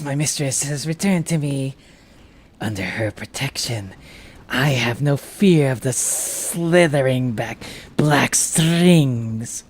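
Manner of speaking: slow, hushed loyal servant; slow reverent minion voice; devoted servant voice. Acted. Voicing a game character's dialogue.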